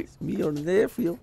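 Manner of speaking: high-pitched, pleading Latino caricature; mock Latino accent. Scammer posing as a nephew, mock Latino accent. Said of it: "why do you sound Latino".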